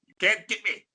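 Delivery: high, loud mock-defensive denial; playful protest. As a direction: protest teasingly, voice climbing high. Playful denial of naming someone.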